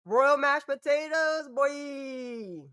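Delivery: high, slowed hammed-up proclamation; goofy announcer. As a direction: proclaim it like a silly herald. Playful silly exclamation.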